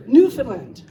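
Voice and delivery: "Newfoundland" firmly as NEW-fin-LAND, ending on LAND; Newfoundland pronunciation. Shown as a demonstration. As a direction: model "Newfoundland" for the choir, landing on LAND. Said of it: "That's how we're gonna do it".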